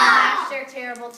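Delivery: loud shouted "Gnash their terrible teeth"; a teacher playing the monster. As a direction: bark the line like a monster. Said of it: "Gnash your, wait".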